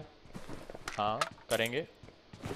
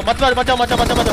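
raised, insistent repeated order; urgent warning; 4 semitones higher, 4 dB louder than usual. Real, not acted. Player stopping teammates from pushing, urgent and insistent. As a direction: press the team to hold back, higher voice. Warns team not to push.

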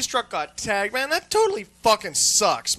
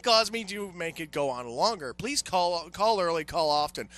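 sarcastic answering machine. Retold or imitated. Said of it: "get on the answering machine and say".

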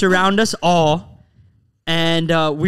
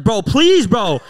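retold panicked plea; 5 dB louder, much slower than usual. Pleading with a driver who won't get involved, panicked. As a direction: beg urgently, re-enacting the panic. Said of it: "I was panicking".

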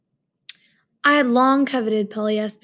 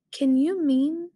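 incredulous; 5 semitones higher, slower than usual. Acted. Narrator disbelieving his roommate, slow and incredulous. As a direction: drag it out in disbelief. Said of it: "I said incredulously".

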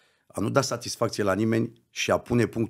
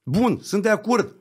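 mock reluctant agreement; 12 semitones higher, 6 dB louder, slower than usual. Mock reply in retold talk.

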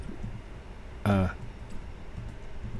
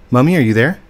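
louder call, stress on are; 2 semitones higher, 6 dB louder, faster than usual. Real, not acted. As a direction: call out to be heard. Calling mom again louder.

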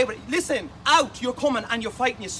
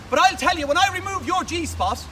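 higher, louder warning burst; loud threat; 5 semitones higher, 4 dB louder than usual. Real, not acted. Warning Langer Laugh what's coming, loud and rising. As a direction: rear up into the threat.

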